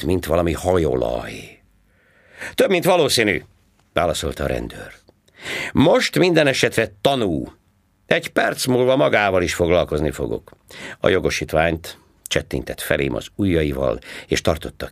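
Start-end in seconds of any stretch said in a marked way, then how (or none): 2.5-3.4 high, loud mocking cop voice; sarcastic policeman. A narrator's reading. Policeman answering. 5.7-10.5 high, loud mocking cop voice; sarcastic policeman. A narrator's reading. Policeman warning.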